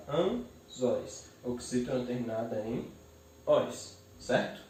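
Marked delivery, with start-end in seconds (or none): 0.1-1.2 "anzóis" slowly split into an, zóis; syllable by syllable. Shown as a demonstration. Teacher separates the word, "anzóis" syllable by syllable. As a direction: pause between the syllables of "anzóis". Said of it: "eu separo".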